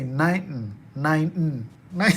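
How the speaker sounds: nineteen swallowed, nain-n; mock quick American nineteen, the t dropped; clipped nineteen, nine; imitating American. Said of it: "heard a lot of people say".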